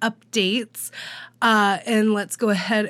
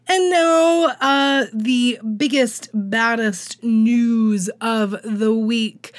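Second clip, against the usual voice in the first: hyped announcement; slower than usual. Real, not acted. Big announcement build-up.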